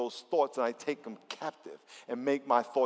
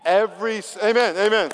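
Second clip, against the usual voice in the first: shout; 6 semitones higher, 10 dB louder than usual. Real, not acted. Preacher calling out amen.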